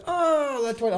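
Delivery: high, bright-pitched shop lady; bookstore lady. Retold or imitated. Man imitating the bookstore lady repeating his word, pitched high. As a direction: sing it up high like the lady catching on.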